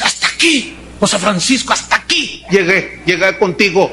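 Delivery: lightly voiced lover breaking up; fed-up lover. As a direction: end it, resigned. Lover storms off.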